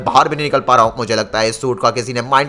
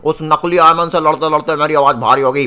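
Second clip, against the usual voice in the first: giant Iron Man with a heavy voice. Acted. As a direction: put on a heavy, armoured hero voice. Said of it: "तेरी आवाज़ को क्या हुआ?".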